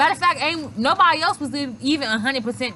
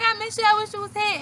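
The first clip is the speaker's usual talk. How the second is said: put-on drunk whining; 9 semitones higher, faster than usual. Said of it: "I was like".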